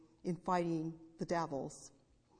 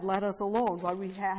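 louder, mildly raised voice; a touch of crying out; retold loud cry; 6 dB louder than usual. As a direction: quote the devil's cry with raised volume. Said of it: "crying out with a loud voice".

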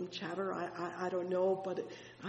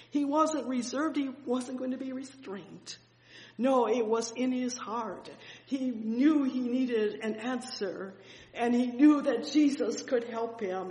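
louder, higher sermon fervor; fervent preaching; 4 semitones higher, 6 dB louder than usual. Acted. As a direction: preach it with conviction.

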